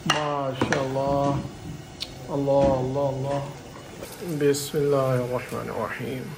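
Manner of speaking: slow, drawn-out devotional phrases; reverent invocation. Real, not acted. Cook's helper blessing the rice pot, reverent. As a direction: intone it slowly and reverently.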